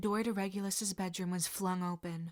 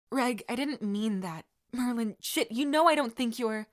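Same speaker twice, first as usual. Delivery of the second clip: louder, higher, hurried apology; urgent backpedal; 3 semitones higher, 8 dB louder than usual. Acted. Sirius taking back his insult, urgent and louder. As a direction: rush to take it back.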